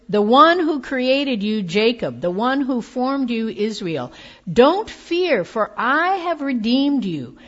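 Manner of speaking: rising, ringing proclamation of the Lord's promise; fervent scripture reading. Acted. Preacher proclaiming Isaiah's words of assurance, fervent and ringing. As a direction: preach it out with growing force.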